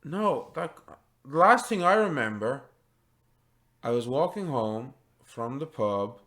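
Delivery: halting voice with long pauses; dazed farmer recalling. Acted. Farmer recalls walking home from the pub, dazed. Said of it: "He's like".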